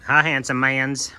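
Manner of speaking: slow, doting greeting. Real, not acted. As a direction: coo at the animal. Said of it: "you don't come across as quite as handsome when I say".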